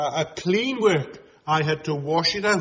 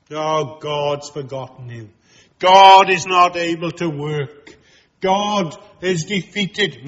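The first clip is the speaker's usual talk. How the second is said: false teachers' taunt; 7 dB louder than usual. Retold or imitated. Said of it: "false teachers' taunt".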